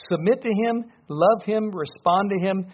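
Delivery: fervent preaching plea; urgent exhortation. Real, not acted. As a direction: plead with them to come. Preacher urging the congregation.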